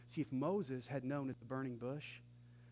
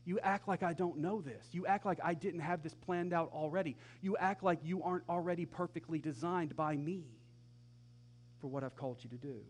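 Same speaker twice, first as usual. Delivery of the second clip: mild scolding; 3 semitones higher than usual. Acted. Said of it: "God says".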